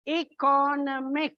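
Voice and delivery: "Economic" with a held second syllable, e-CO-nomic; stress on second syllable. Shown as a demonstration. Teacher demonstrating suffix shift, "Economic" stressed on its second syllable. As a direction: lean on the "co" in "Economic". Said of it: "It's on the second syllable".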